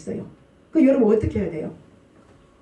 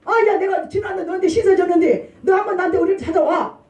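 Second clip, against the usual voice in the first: higher, lightly voiced bossy patron; a hint of a powerful man calling in a favour; powerful person; 6 semitones higher than usual. Preacher mimicking a powerful man demanding a visit, mildly bossy. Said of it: "권력 있는 사람이".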